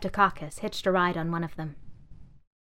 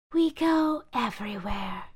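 sighing; 3 semitones higher than usual. Acted. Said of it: "sighed a bag".

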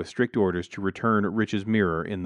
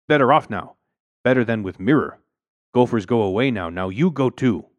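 put-on loud, forceful old-woman voice; old Chinese maid; 3 semitones higher, 7 dB louder than usual. A narrator's reading. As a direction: dismiss him as the elderly maid. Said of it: "The wizened Chinese face".

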